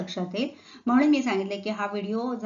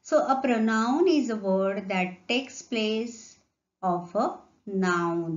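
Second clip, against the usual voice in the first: slow deliberate definition; slow dictation; much slower than usual. Shown as a demonstration. Teacher dictating the definition to pupils, slow and deliberate. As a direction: spell out the definition slowly for copying.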